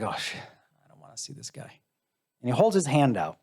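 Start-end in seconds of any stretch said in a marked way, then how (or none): 0.0-1.7 whispered dread. Retold or imitated. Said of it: "I'm like".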